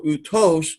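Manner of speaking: outos with the accent on its second syllable; stress on second syllable. Shown as a demonstration. Teacher showing Greek students the added accent, second-syllable stress on outos. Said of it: "on the second syllable".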